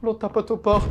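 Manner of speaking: high scream into loud complaint; startled alarm. Real, not acted. Player hears tapping at the doors, startled alarm. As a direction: yell in fright and report it high.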